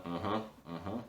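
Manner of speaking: quiet, half-hearted uh-huhs and fake agreement; polite fake interest. Humoring a friend obsessed with The Witcher, polite bored agreement. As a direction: nod along without really caring. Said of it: "doing the polite nod".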